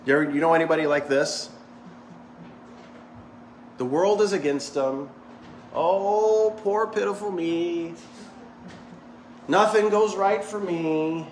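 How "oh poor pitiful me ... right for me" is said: slowed, drawn-out poor-me sigh; hammed-up pitiful lament; mock dramatic self-pity. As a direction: play the martyr for laughs. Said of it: "So dramatic".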